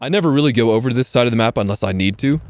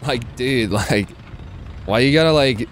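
lightly hammed-up Valley Girl accent, full of likes; slower than usual. Shown as a demonstration. Streamer obliges a chat request, mock Valley Girl accent. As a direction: play up a teasing Valley Girl accent, stumbling over filler words. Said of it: "do a Valley Girl accent if you really wanted me to".

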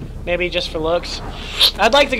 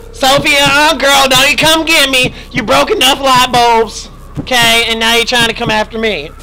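louder, higher telling-off; sassy scolding; 3 semitones higher, 4 dB louder than usual. Real, not acted. Player scolding Sophie the monster, loud sassy telling-off. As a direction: scold her as you run.

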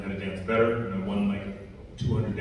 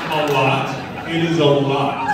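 louder, laughing through the words; 4 semitones higher, 8 dB louder, slower than usual. Real, not acted. Actor joking to fans about the film, laughing. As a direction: chuckle it out.

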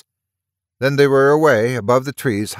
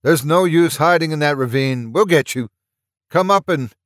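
threatening shout; 6 semitones higher than usual. Acted. Soldier threatening from above.

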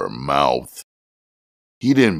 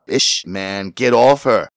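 high, louder frantic urging; wild; 9 semitones higher, 4 dB louder than usual. A narrator's reading. Jimmy urging Tiny off, wild and frantic. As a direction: push him off in a frenzy. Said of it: "Jimmy said wildly".

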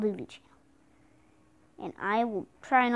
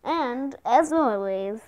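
big booming intro announcer; 2 semitones higher, 5 dB louder than usual. Acted. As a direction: announce the channel like a show host. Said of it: "that was my best announcer voice".

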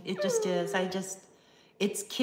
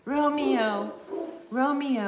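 mock Juliet; 4 semitones higher, 3 dB louder, much slower than usual. Mock recitation of Romeo and Juliet.

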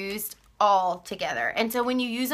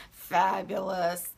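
mock fabulous; 4 semitones lower, 4 dB quieter, much slower than usual. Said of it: "He said they look fabulous".

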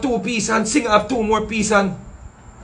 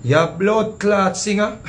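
mocking insult; much slower than usual. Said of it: "The man say".

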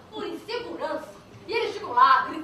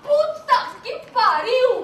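shocked exclamation; 6 semitones higher, 10 dB louder, slower than usual. Real, not acted. Shocked reaction to the story.

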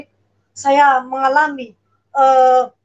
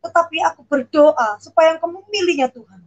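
fervent prayer; 3 semitones higher than usual. Retold or imitated. Pastor praying over the child, a retold, raised fervent prayer. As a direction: pray over the child, building to the amen. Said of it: "apa Bu Ripka ini bilang amin".

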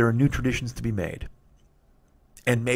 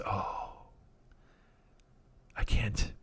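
overcome; 4 semitones lower, 10 dB quieter, much slower than usual. Real, not acted. Overwhelmed by the taste memory.

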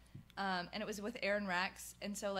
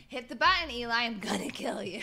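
loud, raised wrestler's threat; shouted mock threat; 2 semitones higher, 8 dB louder than usual. Retelling EC3 interrupting Eli, loud mock threat. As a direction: yell it like a wrestling challenge.

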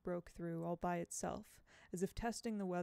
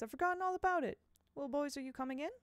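airy teacher voice; 7 semitones higher, faster than usual. Acted. Miss Foley dismisses the worry.

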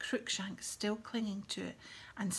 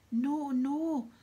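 high, loud tearful wail; sobbing; 6 semitones higher, 8 dB louder than usual. A narrator's reading. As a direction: wail it out through acted sobs. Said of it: "sobbed Lavender".

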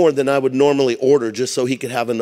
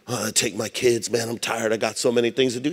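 whiny excuses; 2 semitones lower, 6 dB quieter than usual. Pretend.

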